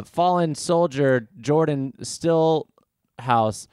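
a hammed-up evening news voice; news anchor. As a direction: announce it like a TV anchor. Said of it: "on the news, it's like".

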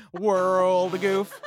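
words through a laugh. Real, not acted. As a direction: speak while cracking up. Still laughing while talking.

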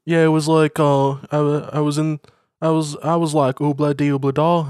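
lightly put-on Liverpool singer voice; a famous singer. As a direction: ramble in a loose Liverpudlian impression. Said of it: "Paul, we get the point".

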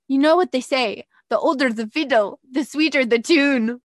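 amateur imitation of an Irishman's accent; attempted Irish accent. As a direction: have a tentative go at an Irish accent. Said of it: "I'm gonna try a acc-, an accent".

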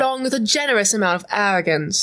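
put-on British accent for a character; lightly done British accent. Shown as a demonstration. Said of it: "in Jade's British accent from the show".

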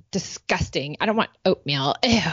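mock disgust, ending on "ew"; disgusted teen. Daughter turns down mom's oatmeal, disgusted.

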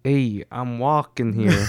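put-on slow, half-hearted Boston accent; mock Boston accent, drawn out; attempted Boston accent. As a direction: take a lazy stab at a Boston accent. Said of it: "give me your best Boston accent".

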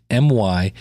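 slow, letter by letter; spelling it out slowly. Shown as a demonstration. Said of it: "now that's".

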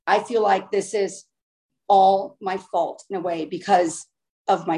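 low-pitched, heavy-hearted retelling; retold sorry mom. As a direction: imitate a mother blaming herself, gently. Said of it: "she got really silent".

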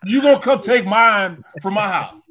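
loud outraged question; indignant shout. Retold or imitated. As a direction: call him out. Confronting son.

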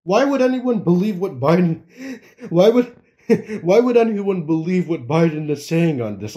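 incredulous question broken by real laughter; laughing in disbelief. Real, not acted. Commentator doubting what Biden says, laughing as he asks. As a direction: keep cracking up as you ask it. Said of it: "I can't stop laughing".

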